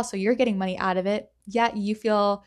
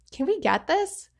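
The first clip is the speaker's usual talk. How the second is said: higher, lightly voiced pleading child; begging kid; 8 semitones higher than usual. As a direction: call up to a parent like a kid. Kids asking parents in store.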